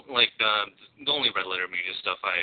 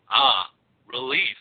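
slow, dry, utterly unimpressed; deadpan; 2 semitones higher, 5 dB louder, much slower than usual. Retold or imitated. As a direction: say it with zero enthusiasm. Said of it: "in the most deadpan voice".

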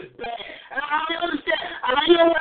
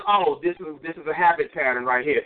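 lower, sly observer noting a habit; the devil noting your habit, lightly voiced and lower; a hint of the devil; 7 semitones lower than usual. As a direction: lightly voice the devil taking notes. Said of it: "But then he says".

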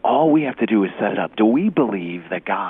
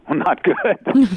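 drawn-out high mock-glum answer, louder; glum reply; 10 semitones higher, 6 dB louder, much slower than usual. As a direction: stretch it out, high and loud, deflated. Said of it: "And he goes".

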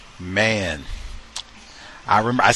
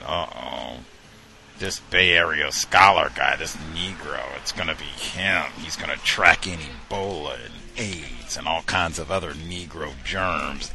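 lower, softer mocking voice of the roommates; 5 semitones lower, 4 dB quieter than usual. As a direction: drop low and sneer it like the racist roommates. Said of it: "they were saying".

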